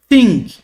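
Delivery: thing with tongue between teeth on TH; aspirated TH. Shown as a demonstration. Teacher giving an example word for theta, aspirated TH. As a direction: blow out the TH of thing. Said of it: "T H aspirado".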